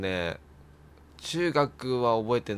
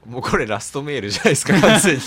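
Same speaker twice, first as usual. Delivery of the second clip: exclaiming; 8 dB louder, faster than usual. Real, not acted. Reacts to farewell-like mail.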